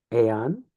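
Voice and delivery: Aeon as ay-on, two vowels. Shown as a demonstration. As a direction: split Aeon into ay-on. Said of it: "treated as aeon instead of een".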